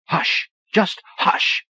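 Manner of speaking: sharp, high, hushed command. A narrator's reading. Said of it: "she commanded".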